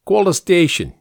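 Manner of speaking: high, firm order; giving instructions. A narrator's reading. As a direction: order an underling about. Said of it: "he instructed".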